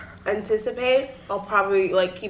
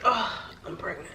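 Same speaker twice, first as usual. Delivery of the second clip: laughing; 9 dB quieter than usual. Retold or imitated. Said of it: "I'm gonna be like".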